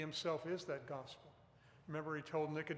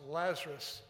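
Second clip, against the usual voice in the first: raised, louder calling of a name; 6 dB louder than usual. Retold or imitated. Preacher quoting Jesus speaking to Lazarus, loud voice. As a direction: call out firmly, imitating a loud command. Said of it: "He said in a loud voice".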